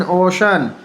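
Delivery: "ओशन" with a sh sound for the C. Shown as a demonstration. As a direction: demonstrate "ओशन", the middle consonant a clear sh. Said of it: "सी का उच्चारण श होता है". ("ओशन" में सी को श बोलें)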